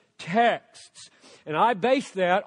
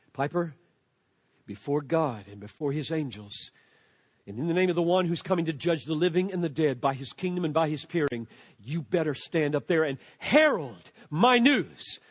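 apostle's charge; 6 semitones lower, 3 dB quieter, faster than usual. Retold or imitated. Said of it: "I hear the apostle telling me".

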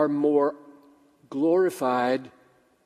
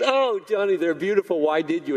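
delighted wife; 2 semitones higher than usual. Acted. Acts wife delighted by flowers.

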